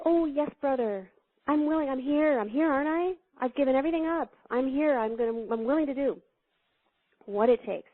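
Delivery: lightly voiced keen monk; eager young monk. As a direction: eagerly reassure the teacher. Eager monks voiced in story.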